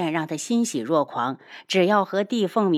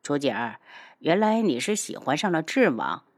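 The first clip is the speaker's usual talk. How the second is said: lower, cool taunt; mildly sneering realization; scoffing; 3 semitones lower than usual. Acted. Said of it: "叶修嗤笑".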